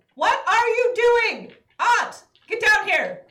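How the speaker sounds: full-throated loud holler. Calling back a crazy aunt who has ridden off: yelling in character. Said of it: "and yelling".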